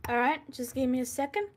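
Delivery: talking with food in mouth; mouth full. Real, not acted. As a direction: speak around a mouthful of food. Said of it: "I have food in my mouth".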